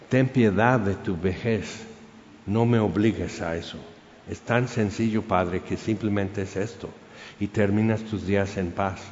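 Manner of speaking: subdued, mildly pleading centurion; gentle plea. Retold or imitated. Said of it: "el centurión le ruega". (ruego suave y contenido)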